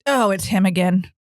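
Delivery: lightly voiced weary wife; a hint of a tired wife; man doing a woman's voice. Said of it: "my impression of my wife".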